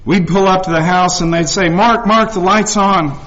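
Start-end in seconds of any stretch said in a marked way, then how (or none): 1.7-3.2 higher-pitched imitated heads-up; mildly alarmed friend alerting a buddy; urgent warning. Friends to Mark outside his house, urgent warning.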